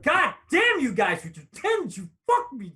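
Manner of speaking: loud, slow, exasperated yelling; frustrated outburst. Real, not acted. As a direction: curse at the dice. Reacts to bad dice roll.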